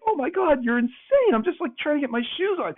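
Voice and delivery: very high, frantic, near squeal; retold panicked disbelief. Chris reacting to the plate smashing, panicked high squeal. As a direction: shriek it like the plate just hit the wall.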